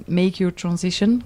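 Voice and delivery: English lyric in a French accent, a little slow. Shown as a demonstration. French-accented English, quoting a song title to the interviewer. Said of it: "Pardon pour mon accent anglais".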